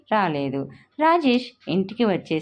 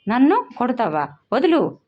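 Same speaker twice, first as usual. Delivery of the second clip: higher, louder shout, struggling to break free; angry cry; 6 semitones higher, 3 dB louder than usual. A narrator's reading. Girl struggling in her mother's grip, shouting angrily. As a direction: yell వదులు as she twists away. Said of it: "అరుస్తూ గింజుకుంది".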